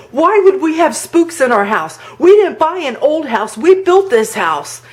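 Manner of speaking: high, agitated protest; retold nervousness. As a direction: imitate a rattled husband objecting. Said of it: "like, really nervous".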